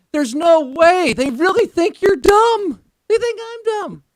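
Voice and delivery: very high, slow cartoon voice; cartoonish voice. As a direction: squeak it like an old cartoon. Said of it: "Why'd you do that cartoonish vo".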